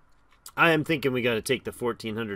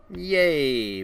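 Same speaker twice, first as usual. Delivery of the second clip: excited; 4 semitones higher, 6 dB louder than usual. Real, not acted. Cheering a game bonus.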